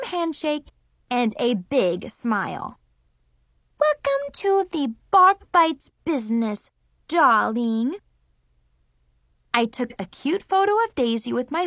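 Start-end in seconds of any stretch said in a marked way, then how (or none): 3.8-7.9 lightly voiced little girl; a hint of a bossy little sister.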